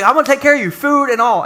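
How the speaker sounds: God promising Elijah food, a touch hammed-up; mock reassuring God. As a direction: play God fondly providing.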